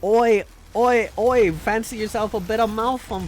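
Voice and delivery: hammed-up, badly done British accent. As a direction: attempt a rowdy British "oi". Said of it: "I can't do a British accent".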